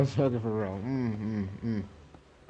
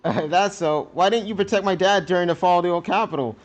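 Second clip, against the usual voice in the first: a hurt daughter raised up, accusing; accusing teen daughter; 5 semitones higher, 4 dB louder than usual. Acted. Zita to Sally about her dad, accusing and raised. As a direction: throw the blame at her.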